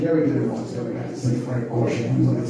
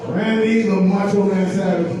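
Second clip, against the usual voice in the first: announcer hype; 4 semitones higher, 4 dB louder than usual. Pretend. Announcing Macho Man.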